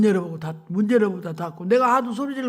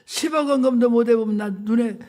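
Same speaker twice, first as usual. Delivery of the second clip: retold tearful plea; 3 dB louder than usual. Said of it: "눈물이 막 쏟아지면서".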